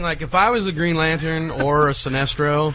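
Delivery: talking through clenched teeth. Real, not acted. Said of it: "you clenched your teeth there".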